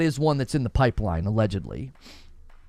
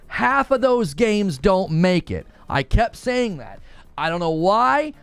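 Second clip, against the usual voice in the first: higher, animated insisting; insistent; 5 semitones higher than usual. Real, not acted. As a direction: swear you called it, all fired up. Insisting he predicted the cancellations.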